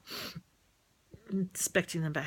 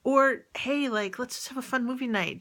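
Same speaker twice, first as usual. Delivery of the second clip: bright friendly invite; 5 semitones higher than usual. Retold or imitated. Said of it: "you call them up and be like".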